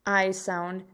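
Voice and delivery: "I" pronounced ih before "sound"; short I sound. Shown as a demonstration. Teacher names the sound in kit, "I" as ih. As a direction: give "I" the short vowel of kit. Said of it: "we hear that short".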